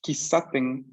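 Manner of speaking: Kisaten con S y no con sh; sostén la S en Kisaten; S clara. Shown as a demonstration. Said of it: "es S". (pronuncia Kisaten con una S limpia y alargada)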